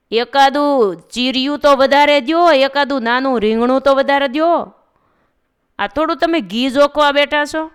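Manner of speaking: loud indignant haggling over a small extra; woman protesting. A narrator's reading. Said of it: "એણે બૂમ પાડી કે".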